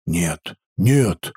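испуганное «нет», ниже обычного; торопливо перебей от страха; испуганно. Acted. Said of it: "испуганно перебил". (испуганно перебивая)

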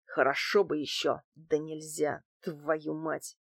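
soft wistful grumble, dying away; dreamy. A narrator's reading. Thug longs for another beer he can't have, soft dreamy regret. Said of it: "Герыч сказал мечтательно".

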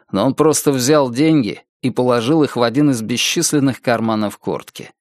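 ordinary delivery, nothing marked

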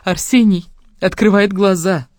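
slow, loud, tearful; mother still crying as she confirms; sniffling mother. A narrator's reading. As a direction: sob through the good news. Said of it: "всхлипывая".

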